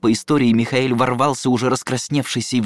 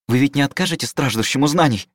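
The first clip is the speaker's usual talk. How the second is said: wailing plea; 5 semitones higher than usual. Acted. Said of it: "взвыл Михаэль".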